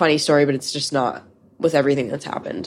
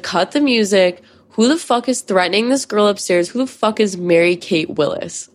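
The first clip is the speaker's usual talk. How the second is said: imitated indignant call-out, pitched up at first; dramatic confrontation; 3 semitones higher than usual. Mom confronting the basement party, mock-dramatic demand. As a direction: act out a drunk mom halting the party. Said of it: "in the most dramatic, like, cut the music moment".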